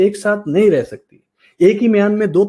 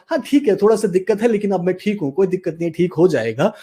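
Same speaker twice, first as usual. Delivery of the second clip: mildly upbeat self-reassurance; a little enthusiasm; 2 semitones higher, faster than usual. Shown as a demonstration. Coach modelling positive self-talk, mildly energised voice. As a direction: put some positive energy in the voice. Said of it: "थोड़ा सा जोश लेके आओ".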